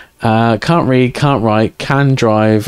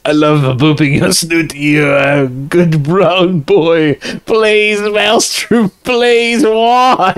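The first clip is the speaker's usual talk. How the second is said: hammed-up French accent, climbing higher into pleading; bad French accent; 4 semitones higher, much slower than usual. Reading a chat quote about a dog, bad French accent. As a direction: do a terrible French accent, ending high and drawn out. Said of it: "In a bad French accent".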